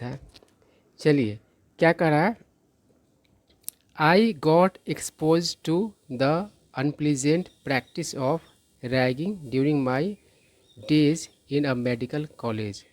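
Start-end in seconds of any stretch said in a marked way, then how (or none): 4.0-12.8 English sentence read very slowly, word by word; slow careful reading. Acted. Teacher reading the example sentence out slowly. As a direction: read it out deliberately for students.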